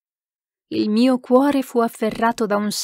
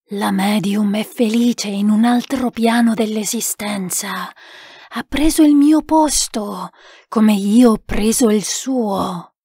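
measured spirit with drawn-out phrase endings; lightly voiced spirit, solemnly answering. Spirit tells the sitters of the medium, solemn.

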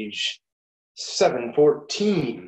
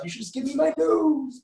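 impatient Juliet; 12 semitones higher than usual. Retold or imitated. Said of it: "Juliet says".

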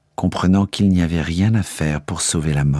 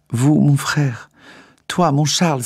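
higher, slow cry of grief; anguished outcry; 8 semitones higher than usual. A narrator's reading. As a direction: cry out to a dying brother. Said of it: "s'écria-t-elle". (cri d'angoisse, voix bien plus aiguë)

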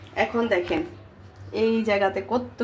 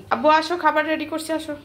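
raised calling voice; 5 semitones higher than usual. Real, not acted. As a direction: call her to the table. Mother calls daughter to eat.

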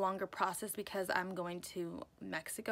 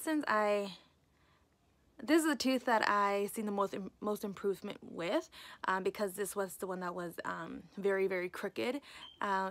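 showing teeth with finger; finger pulling lip down. Real, not acted. Seen 0: Finger pulls lower lip down showing teeth, on and off throughout.

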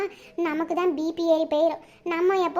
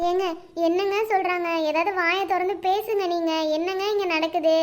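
begging him to speak up; pleading wife; 2 semitones higher than usual. Acted.

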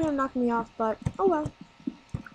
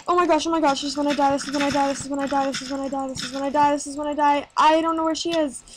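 panicked; 4 dB louder, faster than usual. Real, not acted. Panics as she is attacked.

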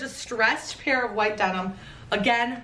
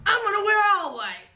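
cheeky imitation of a rule-breaker; sassy mock defiance; 4 semitones higher than usual. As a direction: toss it off like breaking the no-white rule on purpose. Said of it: "it's one of those, like".

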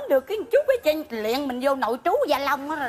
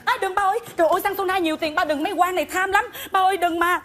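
pleading; 5 semitones higher than usual. Acted. Daughter begging father to stop.

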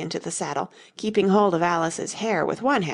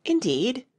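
hearty; 7 semitones higher than usual. A narrator's reading. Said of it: "she said it as heartily as she could".

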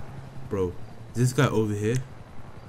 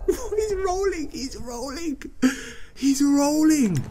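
laughing disbelief; 5 semitones higher, slower than usual. Real, not acted. Laughing at enemy rolling.

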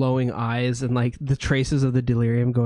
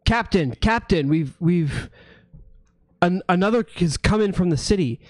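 guard calling out; 3 semitones higher than usual. Acted. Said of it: "call out".

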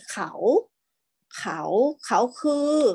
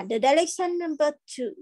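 slow read-aloud; 3 semitones higher, much slower than usual. Shown as a demonstration. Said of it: "อ่านตามด้วย".

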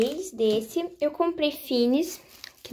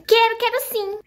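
put-on high childish voice on the phone; high, chirpy kid voice; little girl voice; 9 semitones higher, 5 dB louder than usual. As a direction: play a cheerful little girl answering a call. Doll voice accepting.

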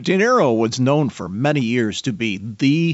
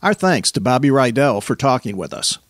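podcast outro read. Real, not acted. Reads the podcast sign-off.

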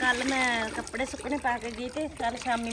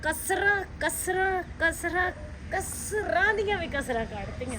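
excited emphasis; 5 semitones higher than usual. Real, not acted. Repeating word emphatically.

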